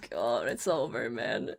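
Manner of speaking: low, soft mock despair. Mocking players pitying ironmen, low mock despair. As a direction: moan like all is lost.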